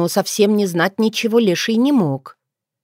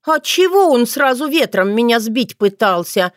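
sulky; 6 semitones higher, 3 dB louder than usual. A narrator's reading. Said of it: "насупилась отрада".

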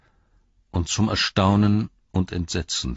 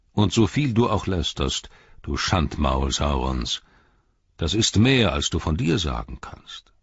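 stern old wizard, lightly voiced; a grave wizard rebuking an envoy; a hint of a stern old wizard; Gandalf's stern voice.

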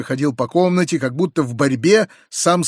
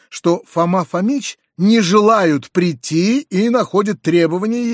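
mock the servant's airs; pompous lackey; 5 semitones higher than usual. Narrator retelling Vidoplyasov, lightly mocking.

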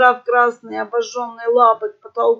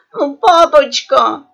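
невнятно; 4 semitones higher, 8 dB louder, slower than usual. A narrator's reading. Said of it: "кликотнула она невнятно".

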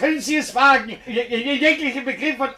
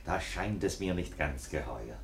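character voice; 10 dB quieter than usual. Acted. Narrator voices character quote.

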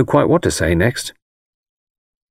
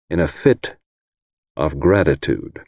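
a mildly soured, lower finish; 4 semitones lower than usual. A narrator's reading. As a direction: let the words turn a little sour. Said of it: "made the last two words sound as sour as lemon".

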